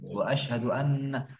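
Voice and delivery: "Wa asyhadu anna" with a held nn; tajwid-style recitation. Shown as a demonstration. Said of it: "Tidak perlu tajwid".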